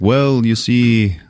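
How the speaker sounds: slow, stretched-out preamble; storytelling writer. Retold or imitated. Writer begins explaining the crystal, slow put-on portentous voice. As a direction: imitate a man savoring his tale. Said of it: "He's like".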